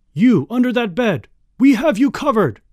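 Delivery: loud, high, forceful police order; shouted, no-nonsense warning; snapped command. A narrator's reading. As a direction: bark it at a cornered suspect. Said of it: "snapped the commander".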